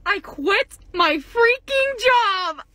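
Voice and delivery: high, drawn-out celebratory yell; elated announcement. Real, not acted. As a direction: shout the big news, stretching the words. Announcing she quit her job.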